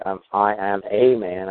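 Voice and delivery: slow, "a" said as a full "ay" before "man"; stress on a. Shown as a demonstration. Showing the host the phrasing he avoids, slow stress on "a". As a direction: lean on "a" in "I am a man." slowly. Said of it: "Like, I don't say".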